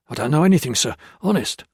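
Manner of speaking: terrified. Acted.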